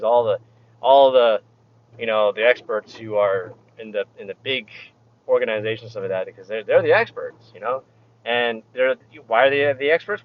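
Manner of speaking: dry mocking sarcasm; sarcastic. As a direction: say it like you don't believe it. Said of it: "I'm being sarcastic".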